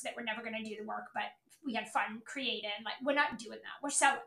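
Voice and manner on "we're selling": louder, punchy declaration; emphatic. Real, not acted. Coach hammering the team's mantra, loud and emphatic. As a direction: drive the word home hard.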